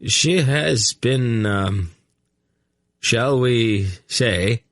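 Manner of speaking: slow, drawn-out search for a tactful word; delicate hesitation. A narrator's reading. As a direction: hesitate discreetly before the euphemism. Chamberlain delicately avoiding saying it.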